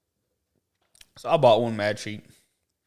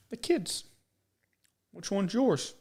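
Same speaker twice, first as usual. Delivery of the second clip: higher, lightly voiced curious lady; nosy lady; 9 semitones higher, much slower than usual. Imitating a nosy stranger asking which child is his. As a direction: ask it like a prying stranger.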